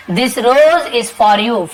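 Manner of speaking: very slow example sentence; slow teacher demo; slow dictation. Shown as a demonstration. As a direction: read it out slowly for learners. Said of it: "slow model sentence".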